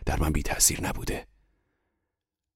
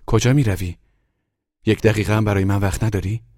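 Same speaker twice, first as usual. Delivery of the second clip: loud, higher-pitched demand; loud challenge; 4 semitones higher, 6 dB louder than usual. A narrator's reading. Wife to her departing husband, loud reproachful question. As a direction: call out sharply after someone leaving. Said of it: "محلقا با صدای بلند گفت".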